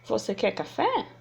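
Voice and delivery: "Você quer café?" with a rise on café; questioning rise on "café"; example question. Shown as a demonstration. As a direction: ask it, lifting the end of "café". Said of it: "Veja um exemplo pra ficar mais claro".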